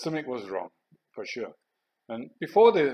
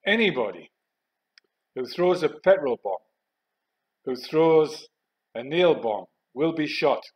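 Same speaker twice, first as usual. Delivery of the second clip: deliberate warning, phrase by phrase, somewhat louder; megaphone announcement; 4 semitones higher, 6 dB louder than usual. Retold or imitated. Company commander warning rioters outside, megaphone announcement. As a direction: imitate an officer's public warning. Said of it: "went outside with a megaphone".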